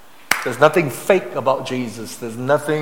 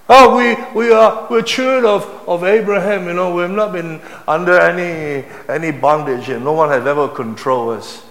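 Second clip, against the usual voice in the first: loud, high start easing to usual; hammed-up defensive bluster, settling down; mock protest; 4 semitones higher, 5 dB louder than usual. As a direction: imitate self-righteous objectors, starting high and loud. Mimicking the listeners' proud protest.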